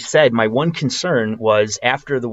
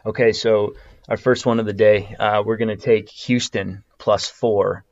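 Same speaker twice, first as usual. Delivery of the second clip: deep cold voice. Real, not acted. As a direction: voice dropped low from a cold. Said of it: "I'm getting over a cold, so my voice sounds like".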